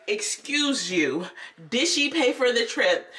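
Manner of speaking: confronting. Retold or imitated. Woman challenges the teacher for a child, confronting. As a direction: imitate a woman calling someone out.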